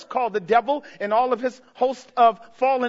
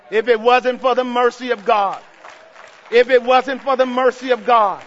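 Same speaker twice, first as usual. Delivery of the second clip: louder each time, hammering it; building shout; 6 dB louder than usual. Real, not acted. Preacher repeating to the church, louder each time. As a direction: drive the repeat home louder.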